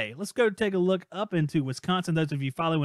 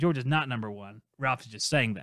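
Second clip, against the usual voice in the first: plain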